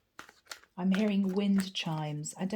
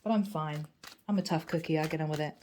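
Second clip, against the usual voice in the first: hoarse from a cold; raspy, under-the-weather voice; gravelly voice; 2 semitones lower than usual. Real, not acted. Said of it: "Forgive my gravelly voice".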